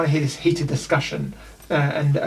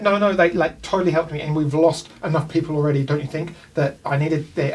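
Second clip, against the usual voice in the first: defensive Tempest; 3 dB louder than usual. Acted. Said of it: "she's like".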